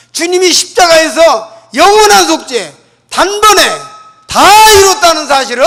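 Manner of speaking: loud, emphatic sermon delivery; fervent pulpit preaching; preaching at full force. Acted. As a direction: proclaim it to the whole congregation.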